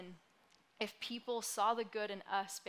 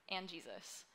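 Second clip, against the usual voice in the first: small, sheepish afterthought; tacked on in a tiny voice; very quiet; 4 semitones lower, 8 dB quieter than usual. Retold or imitated. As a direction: mumble it shyly, shrinking back. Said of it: "in a very quiet voice".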